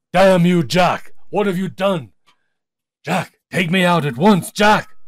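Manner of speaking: high, loud furious outcry; devil crying out. A narrator's reading. Trapped devil yells at Jack from the purse, furious and loud. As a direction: rage at being trapped. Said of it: "Jack heard the devil cry out".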